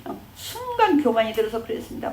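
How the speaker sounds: mock contrite plea; pleading repentance. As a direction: mildly act out a sinner begging forgiveness. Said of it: "막 그래야 돼".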